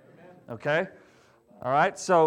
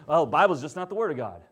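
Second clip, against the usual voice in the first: mock wrong answer; 2 semitones lower, faster than usual. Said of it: "The wrong answer".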